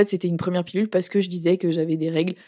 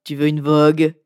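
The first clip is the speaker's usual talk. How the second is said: low, loud raspy smoker; smoker's voice; 4 semitones lower, 5 dB louder than usual. Pretend. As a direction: play a chain-smoking lady. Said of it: "j'ai une voix de fumeuse".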